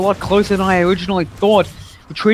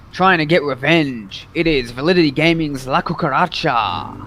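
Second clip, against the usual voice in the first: announcer. Acted. Announces the players like a caster.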